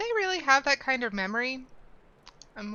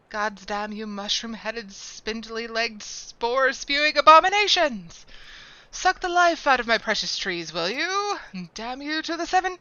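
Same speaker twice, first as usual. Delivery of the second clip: furious shout at the pests; angry ranting gardener; 5 dB louder than usual. Acted. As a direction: rage at the mushroom pests. Gardener NPC curses mushroom pests.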